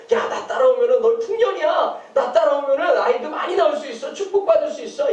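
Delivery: a lightly voiced sales-pitch idol, rising at the end; tempting idol. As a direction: sell the blessing like a huckster. (유혹하는 우상처럼 달콤하게 꼬드기며)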